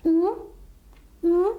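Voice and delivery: ਊ alone, as a long oo, loud and separate; isolated vowel sound. Shown as a demonstration. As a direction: sound out ਊ by itself with a pause after it. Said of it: "ਊ ਦੀ ਆਵਾਜ਼".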